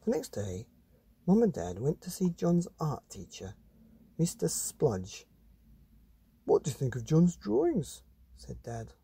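put-on lively read-aloud voice for children; storybook reading. A narrator's reading. Reading a monster picture book to children, animated. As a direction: tell it like a bedtime story to kids.

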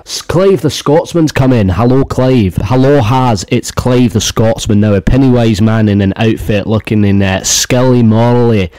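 hammed-up Scottish accent; mock Scottish accent. Host playing Clave the Scotsman reporting the clown, mock Scottish accent. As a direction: put on a rough Scottish accent. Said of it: "we got to do a Scottish accent".

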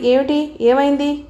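ordinary delivery

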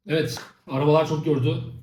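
breathless after the effort; panting slightly from the work; out of breath. Real, not acted. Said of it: "Gerçekten nefes nefese kaldım".

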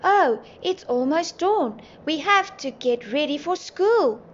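high, loud exclamation of alarm; sudden realisation. A narrator's reading. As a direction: exclaim as if just remembering, stretching the start. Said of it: "he suddenly remembered something".

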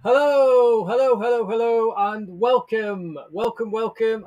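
loud, sing-song hello to open the stream; showtime greeting. Real, not acted. Host greets viewers at start of the livestream, booming and upbeat. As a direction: hype up the audience like a host.

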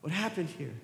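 high, mock-innocent astonishment; Abraham pretending innocence to his father; feigned surprise. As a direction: play dumb, pretend to be shocked.

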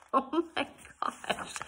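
high, drawn-out gasp of amazement; stunned disbelief. Real, not acted. Reader reacting to Mister Russell's gallantry, stunned.

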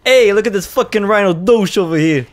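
loud, high Boston accent shout. Shown as a demonstration. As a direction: yell it like a Bostonian. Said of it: "it's much better when you also swear".

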